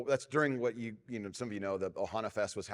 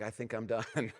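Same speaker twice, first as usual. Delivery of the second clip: laughing. Retold or imitated. Laughing after losing board.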